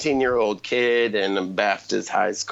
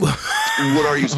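slow, louder hammed-up challenge; mock incredulous yell; 7 semitones higher, 3 dB louder, slower than usual. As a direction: drag it out like a cocky teen calling out. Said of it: "And they're like".

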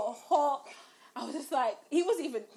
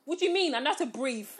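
indignant retort; 3 semitones higher, 3 dB louder, faster than usual. Retold or imitated. Retold indignant reply to friend.

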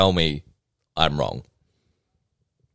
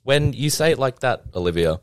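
mock stunned wow; 7 semitones higher than usual. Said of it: "I'm just like".

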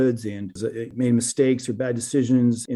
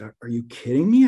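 retold incredulous question, louder; a touch of mock outrage, half-laughing in disbelief; shocked disbelief; 5 dB louder than usual. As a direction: ask it like you can't believe what you just heard. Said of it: "And I was shocked".

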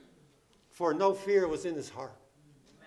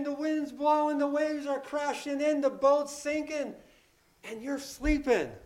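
raised, urgent pleading at the master; panicked disciples; 5 semitones higher than usual. Retold or imitated. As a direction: plead in alarm as the boat sinks. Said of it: "they say to him".

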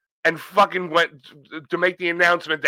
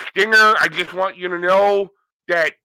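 Ric Flair impression; 2 semitones higher, 4 dB louder than usual. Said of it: "sounds like he's got a retainer in his mouth".

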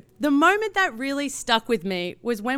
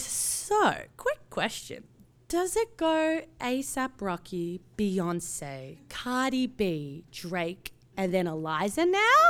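cheeky Aussie question; 4 dB quieter, slower than usual. Retold or imitated. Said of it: "the Australian in me goes".

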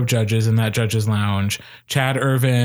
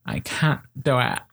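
put-on softer whiny teen; teenager voice; 5 dB quieter than usual. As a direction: sigh it out like a teen giving up. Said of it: "Our teenager impression is getting so good".

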